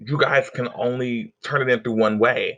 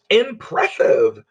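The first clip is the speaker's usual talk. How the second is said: slow emphatic; 2 semitones higher, 4 dB louder, much slower than usual. Shown as a demonstration. Vocab word said slowly.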